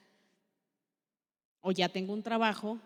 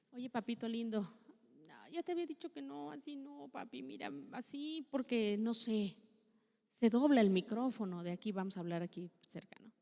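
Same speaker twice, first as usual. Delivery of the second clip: gentle correction. Retold or imitated. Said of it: "está mal cómo lo dijo".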